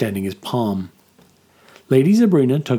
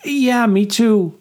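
much higher, slow squeaky voice; boy agreeing nervously, high squeak; 11 semitones higher, 4 dB louder, slower than usual. A narrator's reading. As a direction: let it crack up into a squeak. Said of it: "said Shep in a squeak".

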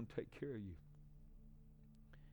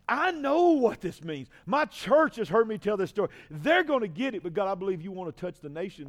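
climbs from raised voice to full-force shouting; building preacher shout; 8 semitones higher, 10 dB louder than usual. Retold or imitated. Preacher shouting his own doubts to the congregation, building. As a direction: pour out the frantic doubts at the top of his lungs.

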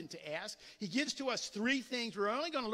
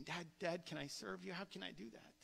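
lightly acted child's hushed request; eager child, softly voiced; 2 semitones lower, 11 dB quieter than usual. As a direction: quietly offer help, as a child to Dad. Child offering to serve a parent.

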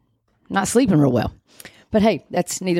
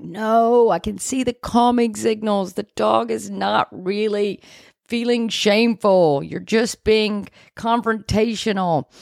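higher pitched, know-it-all retort; indignant retort; 5 semitones higher than usual. Retold or imitated. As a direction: talk back to the video, exasperated and a bit slow. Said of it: "you're like".

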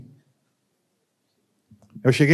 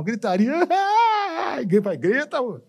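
laughing shout; 9 semitones higher than usual. Real, not acted. Describing the shouting in the room.

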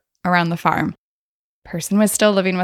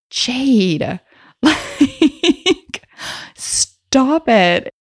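higher, louder scold broken by a laugh; 7 semitones higher, 3 dB louder, much slower than usual. Retold or imitated. To her donkey Jade, a higher, louder laughing scold. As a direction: tell her off while laughing.

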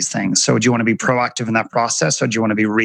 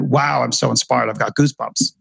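understated mock admiration; sarcastic. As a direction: feign being inspired, with dry sarcasm. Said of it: "In my beautiful sarcastic voice".

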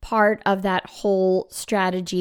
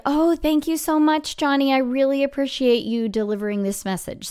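lightly acted gushing thanks, pitched up at the start; grateful teacher; 4 semitones higher than usual. Teacher thanking a student for a delivered note, grateful. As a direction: thank them brightly, starting high. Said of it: "you're gonna be like".

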